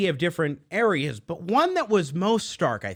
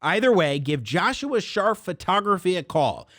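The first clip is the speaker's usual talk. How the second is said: lively, emphatic radio sponsor pitch; sponsor ad read; 2 semitones higher than usual. Acted. Host pitching a photography sponsor to listeners, upbeat ad read. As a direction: sell it to listeners with punched key words.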